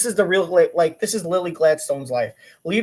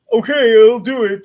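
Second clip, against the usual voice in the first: exasperated yes; 6 semitones higher, 10 dB louder than usual. Retold or imitated. Grudging agreement.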